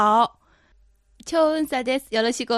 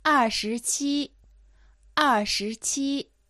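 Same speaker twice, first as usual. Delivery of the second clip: dictating; 2 semitones higher, slower than usual. Shown as a demonstration. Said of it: "頑張ってそれを聞き取ってください".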